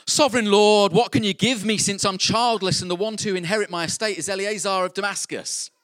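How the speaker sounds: high, loud complaint to God; Abram's exasperated plea. Acted. Abram protesting to God, exasperated and loud. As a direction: cry out in frustration. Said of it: "And what does he say?".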